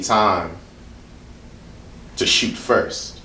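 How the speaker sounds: rhythmic, building poetry performance; spoken word poem. Acted. Poet performing a spoken word piece at a hotel reading, rhythmic and building. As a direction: preach the poem to the room, rising toward a cry.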